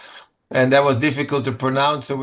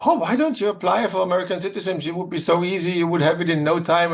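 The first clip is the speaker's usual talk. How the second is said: quick, higher friendly clerk voice; breezy clerk selling the idea; lightly voiced clerk, higher and quicker; cheery official; 5 semitones higher than usual. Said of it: "they said".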